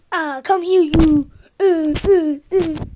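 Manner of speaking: loud. Pretend. Playful attack on brother.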